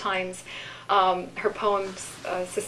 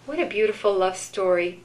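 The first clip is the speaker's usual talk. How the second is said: unhurried poetry reading with long pauses; poem reading. Acted. Reads a poem aloud.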